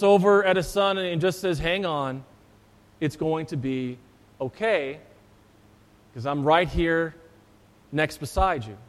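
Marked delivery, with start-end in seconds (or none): 1.6-8.8 put-on a soft, lower, gentle "it's okay" to a frightened child; calm him down quietly, like a father beside his boy; reassuring dad. Dad comforts his scared son on the roller coaster, softly reassuring.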